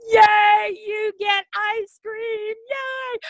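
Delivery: put-on high, bright cheer to a child; excited kid voice. Shown as a demonstration. Teacher cheering a young student, excited. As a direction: squeal it like a delighted kid. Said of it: "Get 'em excited".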